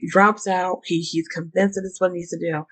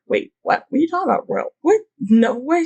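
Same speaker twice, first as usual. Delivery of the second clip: incredulous denial; 8 semitones higher than usual. Retold or imitated. Younger brother denies knowing.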